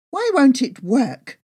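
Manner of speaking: exasperated shout at the cooker; furious outburst. Acted. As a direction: snap at the broken cooker in fury. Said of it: "I cried out loud ... furiously pumped".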